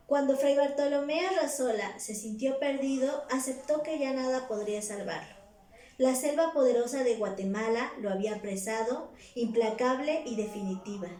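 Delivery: measured, projected reading of a literary text; story read-aloud. A narrator's reading. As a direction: read the story out clearly, phrase by phrase. (lectura narrativa en voz alta)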